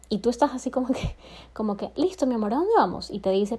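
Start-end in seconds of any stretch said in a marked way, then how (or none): 2.0-3.1 bright, eager yes, rising high at the end; higher, keen mock enthusiasm; eager agreement. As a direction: jump at the invitation like an eager partner.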